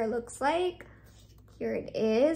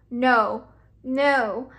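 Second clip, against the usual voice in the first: mock insistent; 2 semitones lower, 5 dB louder than usual. Retelling trying on the shoes.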